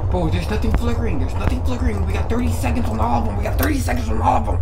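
anxious. Real, not acted. High anxious.

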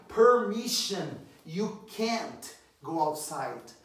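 slow, loud permission and slow can't; slow teaching read. Shown as a demonstration. Teacher slowly showing a refusal of permission. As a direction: spell it out slowly for the class. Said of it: "Você não pode".

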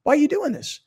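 mock-concerned talking-to; incredulous appeal. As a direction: plead with him in disbelief. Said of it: "I'd try and play it like that".

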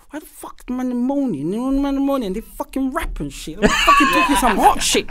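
mock grumbling rant; imitated cussing rant. Podcaster imitating his cussing brethren, mock irritated rant. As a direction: complain like an irked friend. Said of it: "He cusses. He's like".

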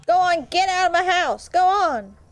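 southern homeowner. Pretend. Player shooing a game intruder off, mock southern. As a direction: order them out with a hint of southern accent. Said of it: "I switch between old-timey witch and southern".

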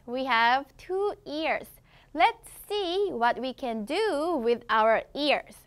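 put-on slow, clear storybook English for kids; slow reading to children. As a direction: read it slowly and brightly to the class.

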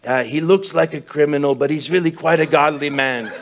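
high-pitched impression of a host's introduction; Luis Palau. Preacher introducing his criminal-looking friend, high put-on voice. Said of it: "Luis always like".

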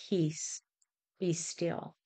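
gentle hush. Retold or imitated. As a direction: quote it very quietly and gently. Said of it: "His whisper is gentle".

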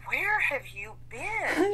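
slow, crying dog voice, drawn out and whimpering; the old wolf dog whining at her owner's return; dog reunion whine; voicing the dog.

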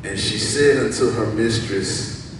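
loud, projected Bible reading; scripture reading. Acted. Preacher reading verse two to church, projected. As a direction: read the verse out to the congregation.

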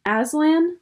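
high, rising disbelief; startled query. A narrator's reading. Queen hears Aslan named by Edmund, startled. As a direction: question the name in sharp surprise.

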